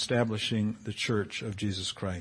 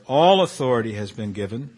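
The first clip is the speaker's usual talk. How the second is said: "All" leaned on, a little louder; stress on All; 2 semitones lower, 4 dB louder than usual. Shown as a demonstration. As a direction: hit the word All. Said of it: "I want to emphasize the word all and always".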